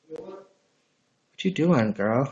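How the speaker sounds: slow, drawn-out mock come-on; mocking a texter. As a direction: drag out the creepy text. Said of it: "And they're like".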